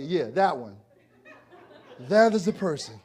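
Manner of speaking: chuckling through the words; laughing. Real, not acted. Speaker laughing with crowd.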